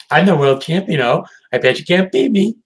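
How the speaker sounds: teasing, rising pitch; playful high challenge. Retold or imitated. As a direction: taunt them sweetly. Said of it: "And she's like".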